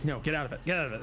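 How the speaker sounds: Southern accent slipping. Real, not acted. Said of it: "That's not my normal voice".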